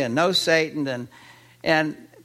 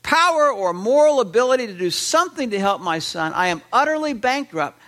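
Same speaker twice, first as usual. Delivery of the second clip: desperate father; 5 semitones higher than usual. Retold or imitated. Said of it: "as if the father is saying".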